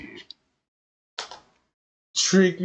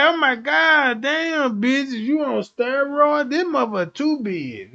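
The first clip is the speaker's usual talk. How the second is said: shocked; 9 semitones higher than usual. Retold or imitated. A man shocked at what he sees, crying out high. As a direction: gasp it out in shock. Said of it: "you like".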